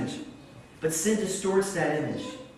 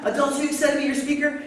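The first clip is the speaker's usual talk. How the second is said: much higher, louder rally call to the crowd; hype-up call; 12 semitones higher, 6 dB louder, faster than usual. Retold or imitated. Pastor hyping kids before speaker arrives, excited call. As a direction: pump the kids up.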